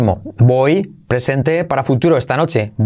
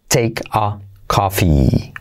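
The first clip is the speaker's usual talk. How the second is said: slow model; 4 semitones lower, much slower than usual. Shown as a demonstration.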